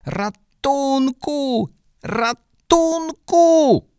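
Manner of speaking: put-on a panicked child shrieking with eyes shut; screaming for help. Hubek screams at the whole street, high, slow and panicked. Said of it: "zaczął płakać i wrzeszczeć tak głośno".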